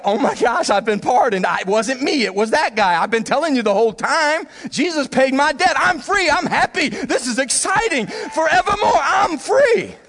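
rising into a joyful shout; an overjoyed prisoner yelling his release; freed joy. Retold or imitated. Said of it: "They're like".

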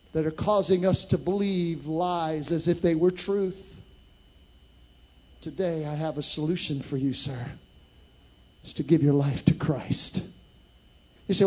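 ordinary delivery

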